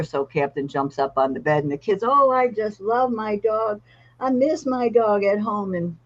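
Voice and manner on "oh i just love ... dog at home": put-on higher, slow child voice; boy on the hospital bed telling the handler he misses his dog; wistful little boy. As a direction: sigh it out like a kid missing his dog. Boy hugging the dog, missing home.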